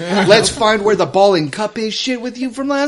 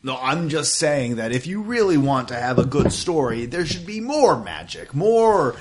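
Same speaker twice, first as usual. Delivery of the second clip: a hint of a debating adventurer; character arguing; 4 dB quieter than usual. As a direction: argue your point in character, slightly held back. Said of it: "what are you two arguing about?".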